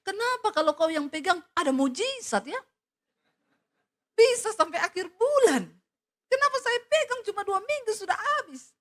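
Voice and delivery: amazed husband. Retold or imitated. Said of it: "Dia bilang sama istrinya".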